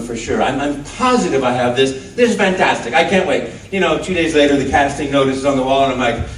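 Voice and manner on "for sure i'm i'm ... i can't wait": gleeful confidence. Retold or imitated. Retelling confidence after his audition.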